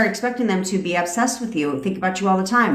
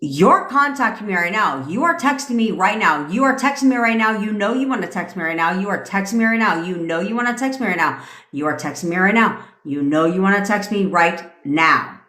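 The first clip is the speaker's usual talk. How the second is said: attitude. Shown as a demonstration. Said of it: "with a whole ass attitude".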